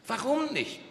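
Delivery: deutlich höher, neugierig; hohe Frauenstimme. Acted. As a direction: quengelnd fragen. Frau fragt nach. (Frau fragt den Skilehrer hoch nach)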